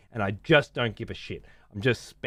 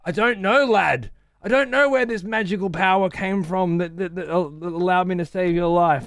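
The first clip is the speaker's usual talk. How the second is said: higher, lightly put-on dwarf voice; lightly voiced gruff dwarf quote; imitating Magni; 7 semitones higher than usual. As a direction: quote the dwarf with mock earnestness. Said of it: "No, he said".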